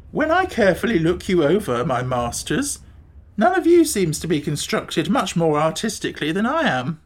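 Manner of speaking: lightly voiced, lilting creature; hint of a put-on beast voice; critical Gump. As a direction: look them over with mild theatrical disdain.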